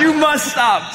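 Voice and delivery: loud laughing outburst; incensed shout. Acted. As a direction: yell it, half laughing. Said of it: "I'm incensed".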